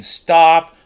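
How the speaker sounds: loud shouted order, imitated; mock scream. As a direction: shout it like an alarmed onlooker. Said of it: "people are screaming".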